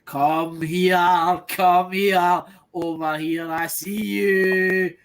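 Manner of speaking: slow, drawn-out beckoning call; luring temptation voice. Acted. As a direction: coax them over like a tempter, very slowly. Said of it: "and said".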